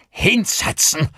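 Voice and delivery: high, forceful burst; angry hissed command. A narrator's reading. Armed father orders his son to sit, sharp angry burst. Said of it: "zischte Gavin Daly".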